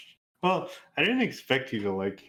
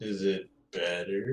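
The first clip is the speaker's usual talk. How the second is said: underwater sound; slower than usual. Real, not acted. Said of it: "you still sound".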